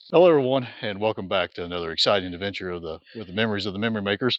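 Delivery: talking through numb, cold lips. Real, not acted. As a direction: lips too numb to speak clearly. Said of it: "My lips are numb, I can't talk".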